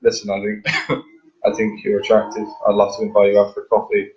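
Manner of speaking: measured, easy confident invite; self-assured invitation. Shown as a demonstration. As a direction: ask them out without pleading. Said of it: "all about the tone of voice".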